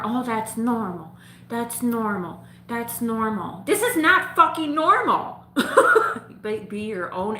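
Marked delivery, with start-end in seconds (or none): 0.0-3.6 mocking the doctor. 3.7-5.4 much higher, louder, laughing in disbelief; outraged outburst. Real, not acted. Telling viewers the doctor was wrong, outraged laughing shout.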